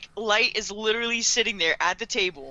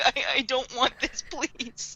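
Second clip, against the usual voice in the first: higher mock pleading, trailing softer; uncomfortable plea; 5 semitones higher, 3 dB quieter than usual. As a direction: beg weakly to be spared.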